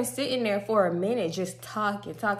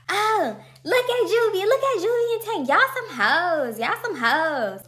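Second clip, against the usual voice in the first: much higher, slowed teasing call across the lot; 10 semitones higher, slower than usual. Retold or imitated. Bystanders in the parking lot tease Juvie and Tank, slow high heckling. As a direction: heckle them like a rowdy bystander.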